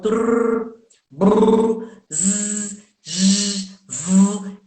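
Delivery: sustained trills and buzzes, trrr, brrr, zzz, vu; sons vibrantes. Shown as a demonstration. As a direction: demonstrate each voiced vibration as a held sound: trrr, brrr, zzz, vu. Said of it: "ela corresponde a uns vibrantes". (sons vibrantes sustentados: trrr, brrr, zzz, vu)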